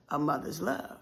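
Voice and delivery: soft refrain. Acted. Recurring refrain, spoken softly.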